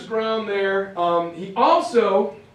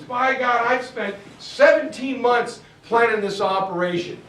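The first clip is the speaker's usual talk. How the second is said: indignant outburst; 4 semitones higher, 4 dB louder than usual. Retold or imitated. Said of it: "Eisenhower says".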